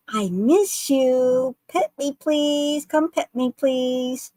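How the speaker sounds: pleading tulpa voice. Retold or imitated. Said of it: "And he said".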